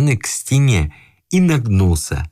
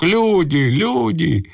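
high-pitched call for help; alarmed cry; 8 semitones higher, much slower than usual. A narrator's reading. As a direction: raise the voice in alarm, not the volume. Alarmed old man calls for help.

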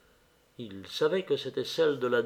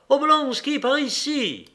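high, raised call across a platform; 12 semitones higher, 4 dB louder than usual. A narrator's reading. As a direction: cry out to hail someone. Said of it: "sortit du wagon et cria". (appel crié, voix haute)

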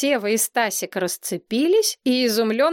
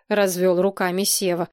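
ordinary delivery

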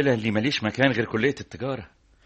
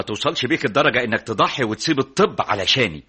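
heated, raised-pitch pleading; urgent warning; 3 semitones higher, 3 dB louder than usual. Acted. Friend warning he will regret it, urgent. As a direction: warn him insistently. Friend warns against rash sacrifice.

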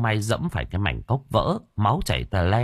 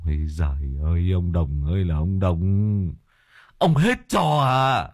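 exasperated groan. Acted. Master exasperated at Đồng's blunder.

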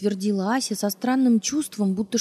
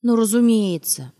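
sarcastic; 3 semitones higher, 6 dB louder than usual. Acted. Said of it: "зло усмехнулась Ася".

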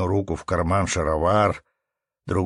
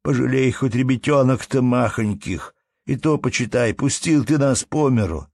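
raised, imploring plea; pleading; 5 semitones higher, 4 dB louder than usual. Acted. Peasant begging the manager to spare his family, imploring. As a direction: beg for the little children's sake.

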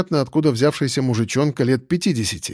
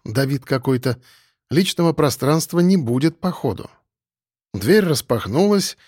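plain reading voice

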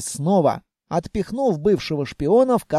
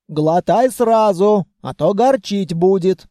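put-on raised, scolding old granny voice; scolding grandmother; 4 dB louder than usual. Grandmother scolding Vanya after the explosion, raised. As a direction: hug and scold in one breath.

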